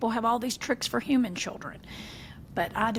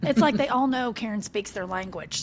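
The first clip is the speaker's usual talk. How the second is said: normal talking voice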